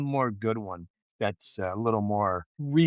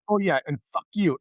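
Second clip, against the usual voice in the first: higher, offhand retort; mock dismissal; 6 semitones higher, 4 dB louder than usual. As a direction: brush him off cheekily. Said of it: "he was like".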